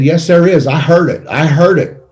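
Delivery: buddy insisting he heard something; insistent retold buddy.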